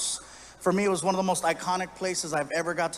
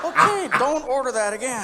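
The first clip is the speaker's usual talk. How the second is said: put-on Australian accent; 7 semitones higher, 6 dB louder than usual. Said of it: "Bartender looked at me".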